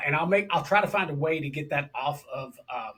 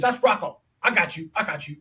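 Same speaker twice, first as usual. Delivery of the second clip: put-on New York accent; 3 dB louder than usual. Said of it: "New York accent, New Jersey accent".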